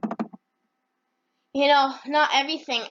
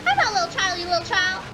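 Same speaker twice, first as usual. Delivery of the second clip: put-on higher, childish comeback; indignant character; 5 semitones higher, faster than usual. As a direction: snap back like a kid in a squabble. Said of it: "Ryan Anderson's like".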